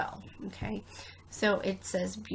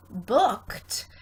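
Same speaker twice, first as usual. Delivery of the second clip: "booked" said louder as a spelling word; dictation word; 6 dB louder than usual. Shown as a demonstration. Teacher dictating a spelling word to students. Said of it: "if I ask you to spell".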